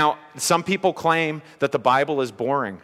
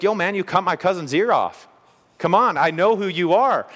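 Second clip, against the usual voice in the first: higher-pitched attempt at a street accent; put-on tough-guy accent; 5 semitones higher than usual. Cousin confronts Peter over the cut ear, in a put-on accent. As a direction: play the accusing cousin in a hammy accent. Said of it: "Sorry, that's the only accent I have. No mafia accent".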